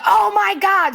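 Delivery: a high, drawn-out oh my God of disbelief; mock exasperation. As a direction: say it like it was so obvious. Reacting to son's remark.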